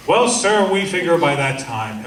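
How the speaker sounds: mock bureaucrat, "Well, sir" pitched high then smoothing out; imitating a bureaucrat. Officer brushing off the speaker's question, mild mock bureaucrat voice. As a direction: lightly mimic a stock staff-officer brush-off. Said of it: "the bureaucrat language suddenly starts".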